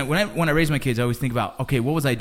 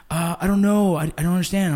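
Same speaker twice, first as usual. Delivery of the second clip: imitating whiny son; 5 semitones higher, 4 dB louder than usual. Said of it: "He goes".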